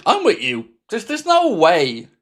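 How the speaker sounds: hiccuping mid-sentence; words broken by a hiccup. Real, not acted. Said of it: "I've got the hiccups now".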